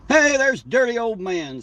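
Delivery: high, slow, drawn-out call of welcome; light up as a regular shows up; happy greeting. Real, not acted. Spotting a regular viewer in the chat, high slow cheerful greeting.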